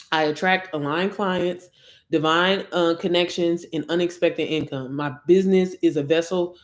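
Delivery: measured affirmation reading. Acted. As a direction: read it like a spoken declaration of faith. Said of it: "let me just read it".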